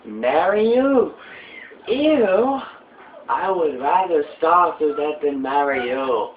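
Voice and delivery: high, loud, grossed-out refusal; a princess rejecting a creep; hammed-up disgusted girl; disgusted heroine. Voices heroine in cutscene.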